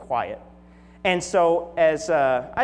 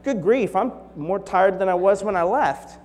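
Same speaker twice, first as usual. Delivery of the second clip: exasperated complaint; 3 semitones higher, 5 dB louder than usual. Acted. Acting out exhausted returning vacationer.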